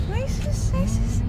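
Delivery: high pitying ay sus; pitying sigh. Real, not acted. Owner pitying her dog after surgery, high pitying coo. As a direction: coo with pity at a hurt pet.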